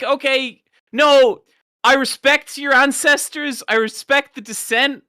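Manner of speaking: exasperated Irish reply. Retold or imitated. Irish man responding to American.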